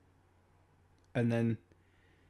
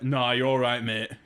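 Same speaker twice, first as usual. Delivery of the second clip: put-on Yorkshire accent; 5 dB louder than usual. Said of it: "thickest Yorkshire accent".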